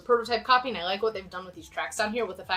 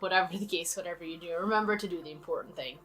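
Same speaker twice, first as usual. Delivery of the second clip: rough, raspy voice; raspy throat. Real, not acted. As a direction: talk through a raspy throat. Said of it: "Please ignore the speaker's raspy throat"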